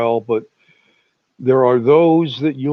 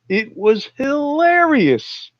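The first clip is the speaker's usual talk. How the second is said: laughing; 11 semitones higher, slower than usual. Real, not acted. Laughing about robocall.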